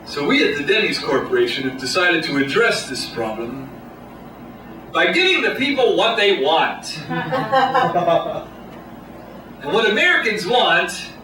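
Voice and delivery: lightly voiced boardroom pitchman; a hint of corporate presenter, increasingly emphatic; marketing guy. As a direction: pitch it like an ad executive, building to a slogan. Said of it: "the marketing guy, the Don Draper type".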